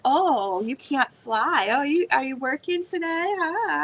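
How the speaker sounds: mocking, taunting the donkey; a light hint of a sneering bird; snide parrot. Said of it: "Makes snide comments like".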